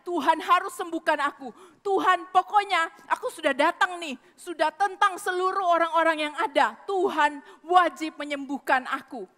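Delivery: a mildly pushy demand of God; lightly voiced entitled plea. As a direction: insist on healing as if owed it. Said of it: "Enggak datang marah-marah".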